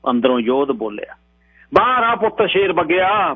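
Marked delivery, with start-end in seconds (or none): 1.7-3.3 tearful voice. A narrator's reading. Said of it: "ਬਲੀ ਦੀ ਆਵਾਜ਼ 'ਚ ਹੰਝੂ ਬੋਲੇ".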